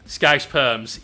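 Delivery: Scouse perms! loud and gleeful; loud exclamation. Real, not acted. Loud exclamation of a chat item.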